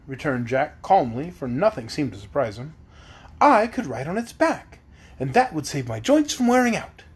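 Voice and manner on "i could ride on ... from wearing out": higher, lightly voiced pumpkin man; cheerful simple pumpkin fellow; Pumpkinhead voice. Pumpkinhead Jack speaking.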